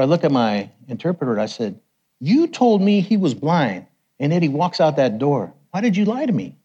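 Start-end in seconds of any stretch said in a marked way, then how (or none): 2.2-6.6 mock indignant, pitch jumping up; retold accusation. Preacher confronting his interpreter, indignant.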